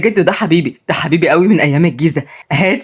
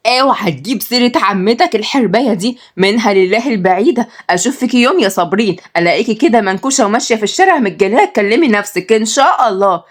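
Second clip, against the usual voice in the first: raised mom voice, cursing; cursing mother voice; 3 semitones higher than usual. Acted. Mother curses the aunt to her son, raised voice. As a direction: spit out the curse like an angry mom.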